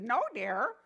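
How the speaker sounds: a hint of a squeaky old lady; lightly voiced, fond no dear; sweet old lady. Minister gently correcting the vow with a dear. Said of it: "she loves to call people dear".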